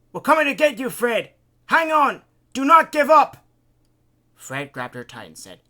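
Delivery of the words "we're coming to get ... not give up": high, urgent distant-rescue yell; shouting. A narrator's reading. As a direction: shout hope to someone far away. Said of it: "They can hear Isaac shouting".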